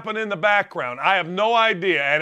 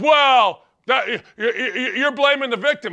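mocking retort; 2 semitones higher than usual. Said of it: "people will just retort with".

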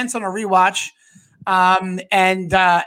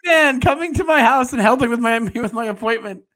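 doting mother; 5 semitones higher than usual. Pretend. Mom voiced, good son.

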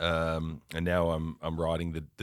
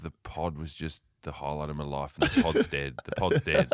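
mock despair; 5 semitones lower, 4 dB quieter than usual. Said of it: "and I'm thinking".

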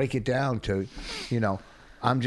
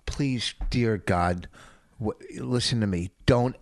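calm turning angry. Pretend. Pleading turning to scolding listener.

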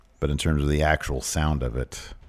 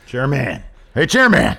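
mock boss call; 6 semitones higher, 3 dB louder than usual. Calling out to the chairman.

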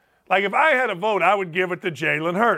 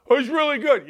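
mock protest; mock fan protest; 6 semitones higher, faster than usual. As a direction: play the objecting caller. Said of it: "But people say".

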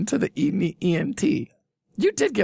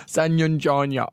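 laughing mock accent; slower than usual. Reading cities in silly accents.

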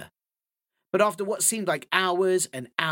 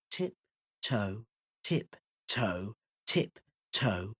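softer, almost whispered; hushed tiptoe; 4 semitones lower, 5 dB quieter, much slower than usual. A narrator's reading. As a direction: sneak the words out. Coyote sneaking out.

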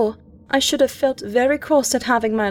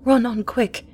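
hurried, raised urging; urgent cry; 3 semitones higher, 4 dB louder than usual. Acted. Diarist urging her sister to run, urgent cry. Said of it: "I cried".

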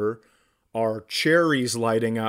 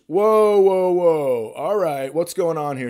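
alarmed cop; 4 semitones higher, 5 dB louder, slower than usual. Retold or imitated. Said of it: "the cop goes".

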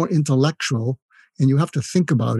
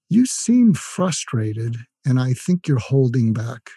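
slow empathetic; slower than usual. Shown as a demonstration. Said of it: "here's the fud crud technique".

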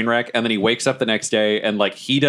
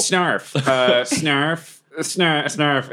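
higher-pitched little goblin call; light, raised goblin voice; goblin creature voice; 5 semitones higher, much slower than usual. Acted. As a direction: speak as a small goblin with one word. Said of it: "And he's just like".

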